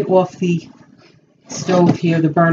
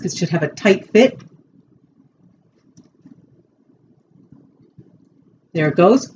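talking while fitting mouthpiece; speaking with mouth guard in. Real, not acted. Seen 2: Guard held at 0.1, pressed onto teeth from 1.4.

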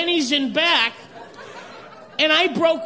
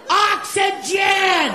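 slow, drawn-out shout; 3 semitones higher, much slower than usual. Retold or imitated. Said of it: "friend gasps for air".

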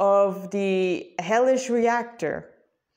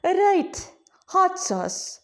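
fake Ganesh; 6 semitones higher than usual. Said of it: "Ganesha asked again".

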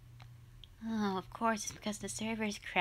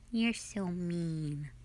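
pouty whine; 4 semitones lower, much slower than usual. Acted. Pouting at partner again.

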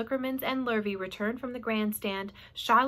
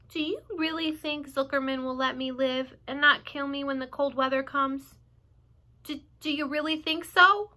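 higher pleading; lightly voiced fearful Wilbur; anxious pig; 4 semitones higher than usual. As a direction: ask hoping to be safe.

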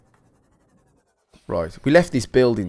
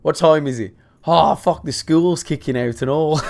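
grumbling Brit; 2 semitones higher than usual. Acted. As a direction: lightly imitate a fed-up British driver. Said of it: "us being like".

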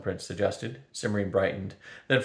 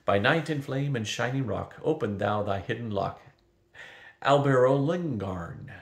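recited spell. A narrator's reading. Simrine recites the spell to open the gate, solemn chant. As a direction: chant the charm that opens the gate. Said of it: "Quickly, Simrine recited".

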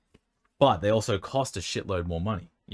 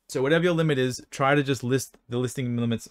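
talking through hiccups; words broken by hiccups; 4 semitones higher than usual. Real, not acted. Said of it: "man, the hiccups".

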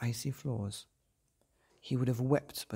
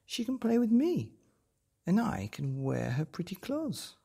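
put-on robber girl; 8 semitones higher than usual.

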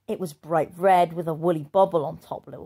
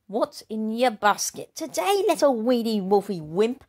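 snarled; 4 semitones higher than usual. Acted. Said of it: "snarled the big bad girl".

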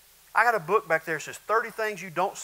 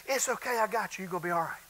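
gentle reassurance; 5 dB quieter, faster than usual. Acted. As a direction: drop to a soft, tender promise. Jesus looks down, gentle.

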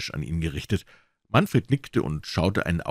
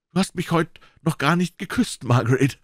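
louder, raised doctor voice demanding a kiss; 9 semitones higher than usual. A narrator's reading. Doctor loudly reproaching his fiancée at dinner, raised voice. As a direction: call it across the table, higher pitched. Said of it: "sagte er laut".

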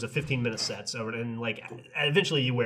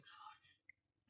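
a breathless, unvoiced curse; whispered curse; 37 dB quieter than usual. The date couple giving up, a whispered curse. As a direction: mutter it under your breath. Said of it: "they were just like".

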